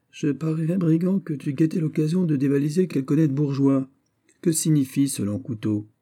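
accusing officer. Acted. Lieutenant accuses the sailor of lurking to rob, mock-stern. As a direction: scold the rogue with suspicion.

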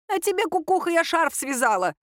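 put-on high old-woman voice, grumbled; a grandmother grumbling back at her teasing husband; grumbling grandma. A narrator's reading. Grandma grumbles at grandpa, in a high voice. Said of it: "буркнула бабуля".

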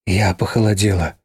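usual speaking voice

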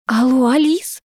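high, thin squeak into the phone; squeaky voice. A narrator's reading. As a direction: peep it out, shaken. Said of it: "пропищала я".

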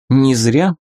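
put-on girl's mental voice, distant and airy; like a thought heard in the head; telepathic voice. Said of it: "возник мысленный голос девушки".

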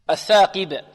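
الثاقب with pure "qi", not thickened; careful teacher's model of الثاقب; lightest-grade qāf. Shown as a demonstration. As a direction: say الثاقب with a clear kasra on ق. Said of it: "نعطي القاف مرتبتها وهي أقل مراتب التفخيم".

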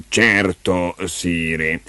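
a hint of a stern courtier; lightly voiced official. Officials summon Leo to the coronation, slow formal voice.

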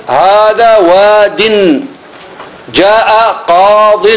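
words said very slowly, the last ياء dropped from واد and قاض; slow example. Shown as a demonstration. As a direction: drop the final ياء, speak slowly. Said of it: "حذفت ال فحذفت ماذا". (نطق بطيء بحذف الياء)

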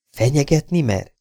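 agitated, high-pitched challenge. A narrator's reading. Girl challenges a threatening suitor, agitated. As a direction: bristle at the threat. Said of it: "kérdezte a lány felindultan".

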